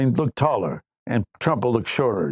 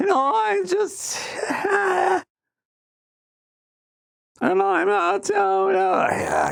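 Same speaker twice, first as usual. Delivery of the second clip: voice going way up and crackling. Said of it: "I have almost got Elizabeth Warren's voice down".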